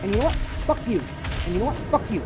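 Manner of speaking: 1 angry cursing. Real, not acted. Cursing at enemies while fighting.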